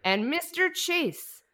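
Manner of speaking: put-on loud, high, slow drunken orator; drunk speech. Vice president drunkenly ranting his inauguration speech, loud and slurry. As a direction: bellow it out like a plastered vice president. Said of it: "can I give you a little of the speech".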